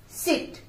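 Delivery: सिट with a quick clipped i; short i. Shown as a demonstration. Teacher modelling सिट with a short i. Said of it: "झटके से बोला है हमने".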